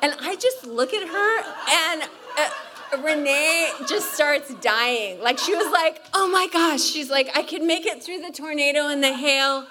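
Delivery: high, loud laughing retelling; laughing hard about the lions and tigers. Real, not acted. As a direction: tell it while cracking up. Laughing about escaped animals.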